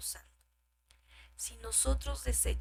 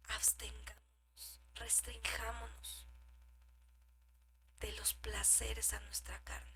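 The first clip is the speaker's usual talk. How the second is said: hushed whisper; 10 dB quieter than usual. Acted. Exhortation whispered.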